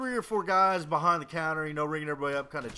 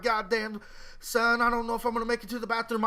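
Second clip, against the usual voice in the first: mock panic; 4 semitones higher than usual. Retold rushing to the bathroom.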